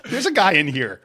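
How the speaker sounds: high, excited catcall, ooh ooh ooh; catcalling women. Retold or imitated. Middle-aged women at the gym catcalling the guy, high excited whoops. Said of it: "I'm getting catcalled".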